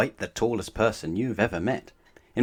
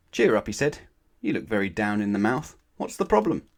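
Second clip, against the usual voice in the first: lightly voiced Mister Nosey; 4 dB louder than usual.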